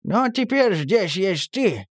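encouraging. A narrator's reading. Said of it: "ободряюще хлопнул его по плечу".

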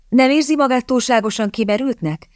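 understated desperation, voice lifted; desperate. A narrator's reading. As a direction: plead with a touch of despair. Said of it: "kérdezte kétségbeesetten Kitty".

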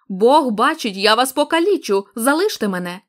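furious roar. Acted. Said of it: "захлинаючись від люті".

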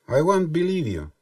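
реплика по-английски, выше и громче; лёгкая цитата героя сериала на английском; агент Малдер. Retold or imitated. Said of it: "как говорил агент Малдер". (лёгкая имитация фразы на английском)

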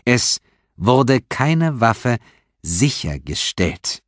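each word drawn out, very slow; very slowly. A narrator's reading. Detective repeats to suspect very slowly. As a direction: spell it out slowly like to a child. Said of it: "wiederholte Stephanopoulos sehr langsam".

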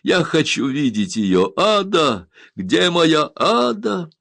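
loud, high, desperate calling out, the last words drawn out slowly; frantic calling. A narrator's reading. Indian demands to see Ada at once, frantic and loud. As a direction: search around wildly for her. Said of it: "крикнул он".

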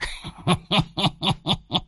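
put-on high wheezy old man's cackle; sly cackle. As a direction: cackle at the fat fee. Đồng laughs mid-pitch. (tiếng cười khẩy khùng khục của lão già)

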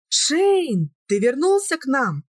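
a mother's cry of joy at the door; joyful cry. A narrator's reading. Mother sees her son awake, high joyful cry. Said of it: "радостно воскликнула Сильвия".

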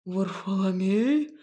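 медленно, ниже, ревниво; ревниво переспросить; ревнивый переспрос. A narrator's reading. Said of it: "ревниво переспросил он". (ревнивый бас, медленно)

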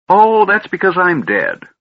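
put-on high, quavering, fussy old wizard. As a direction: play a doddering, bossy old mage. Fizban states.

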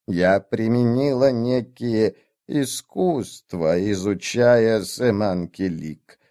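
put-on slow, hesitant old woman; old witch voice. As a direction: weigh each word like a nervous old witch. Witch character explains.

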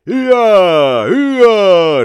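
high, loud "Иа! Иа!" bray; hee-haw at full voice; donkey bray. A narrator's reading. Bargeman brays at the quarrelling pair. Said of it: "ревел судовщик".

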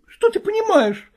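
sharp high shout at her husband; angry shout. A narrator's reading. Wife shouting at husband over his jealousy, angry. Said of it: "закричала она".

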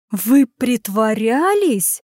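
slow, shocked gasp of a question; lady Sabina's stunned gasp. Acted. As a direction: gasp it in disbelief. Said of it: "ахнула Сабина".

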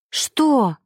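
alarmed question, lightly voiced; frightened. A narrator's reading. Eva sees Max's stunned face, frightened. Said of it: "испугалась девушка".

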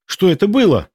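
high startled question, falling at the end; shocked gasp. A narrator's reading. Milena sees Borka drop, gasping in shock. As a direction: gasp as if it just happened. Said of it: "ахнула Милена".

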